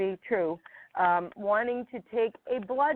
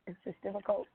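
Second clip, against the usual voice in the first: choked up with a little laugh; fighting tears; emotional. Real, not acted. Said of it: "I'm sorry to get emotional".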